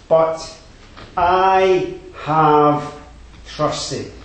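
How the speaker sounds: "I" выделено голосом, громче и выше; дави на слово "I"; stress on I. Shown as a demonstration. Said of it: "Now that word "I" is emphatic".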